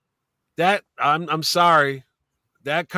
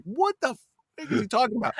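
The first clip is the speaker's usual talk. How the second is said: mock incredulity; 7 semitones higher, 4 dB quieter than usual. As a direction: stretch it out high, baffled by a tall tale. Retold bafflement at tall tale.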